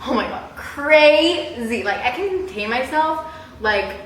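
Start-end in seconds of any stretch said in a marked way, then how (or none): 0.1-1.8 mock freakout. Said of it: "and I'll be like".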